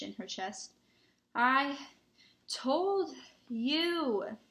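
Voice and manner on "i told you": high, loud, stretched-out gasped words; gasping. A narrator's reading. Hermione saying she warned them, gasping. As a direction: heave out each word on a big breath. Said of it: "Hermione gasped, clutching at the snitch".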